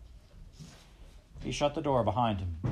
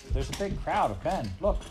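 urgent cry; 8 semitones higher, 4 dB louder than usual. A narrator's reading. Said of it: "she cried out".

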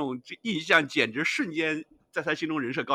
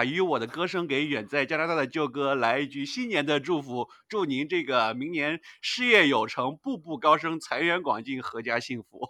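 cheerful new year wishes; 5 dB louder than usual. Real, not acted. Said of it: "来给你唱一下完整版的".

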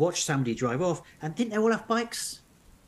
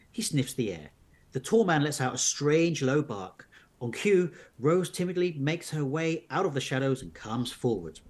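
measured storybook narration; narrating an unfolding mystery tale; story narration; slower than usual. A narrator's reading. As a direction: read the adventure aloud to listeners. Reads an adventure story aloud.

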